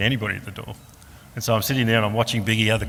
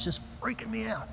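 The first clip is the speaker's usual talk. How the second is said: high, softer panicky squeak; comic high-pitched panic; mock freak-out; 12 semitones higher, 10 dB quieter than usual. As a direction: act out losing control, pitched way up. Acting out panic at crying.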